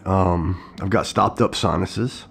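slightly hoarse, stuffy voice. Real, not acted. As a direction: speak with a sore, hoarse throat. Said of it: "if you notice right now".

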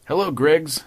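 loud breathless greeting; panting. A narrator's reading. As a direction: greet him while out of breath.

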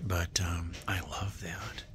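fond whisper. Real, not acted. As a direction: whisper it like a secret crush. Whispered love of bowl.

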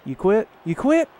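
high, loud taunting yell; mocking shout. Real, not acted. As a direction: crow over the beaten opponent.

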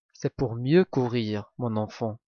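low, soft wolf voice dropping away; sinister wolf, low and hushed; big bad wolf. Wolf in grandmother's bed answers the girl, low.

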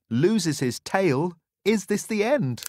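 milk the suspense; mock dramatic worry. A narrator's reading. Dramatic loss of tail.

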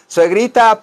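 mock sweet call. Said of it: "mock calling the mother-in-law".

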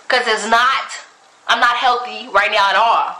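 high, loud exasperated rant; indignant. Real, not acted. Vlogger ranting to viewers about a stranger's question, indignant and loud. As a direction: pitch it up in outraged disbelief.

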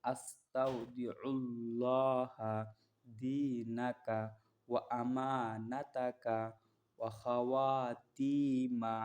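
stretched out syllable by syllable; slow Arabic recitation. Shown as a demonstration. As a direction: draw the word out for learners. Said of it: "আবার পড়তেছি দেখেন".

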